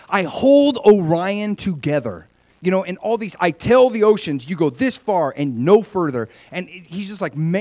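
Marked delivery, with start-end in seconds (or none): 0.1-2.3 lightly voiced God, slow and emphatic; a touch of grandeur, louder and drawn out; God declaring. God speaks to Job of his creation, declaring. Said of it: "He's like". 3.4-6.3 louder, lightly voiced God giving orders; a firm command, mildly acted. God tells the oceans how far to go, commanding. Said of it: "He's like".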